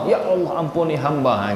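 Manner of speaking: soft, earnest asking; mean every word, quietly; sincere plea. Shown as a demonstration. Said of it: "Jadi minta betul sama Allah". (memohon dengan sungguh-sungguh, lebih lembut)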